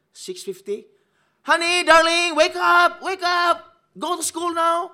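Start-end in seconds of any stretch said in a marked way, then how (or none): 1.5-4.9 high, loud, sing-song mommy calling; sweet mother voice. Retold or imitated. Mother calling her son out of bed, high and sing-song. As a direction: call the sleepy child up high and sweet. Mother waking child again.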